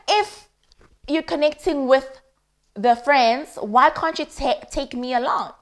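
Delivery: put-on indignant girlfriend demanding to come along; retold protest. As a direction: push back at him, voice climbing. Quarrel with boyfriend, retold.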